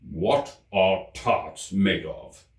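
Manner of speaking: very slow, pompous royal question; deep-voiced King. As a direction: make it grave and weighty. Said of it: "he said in a deep voice".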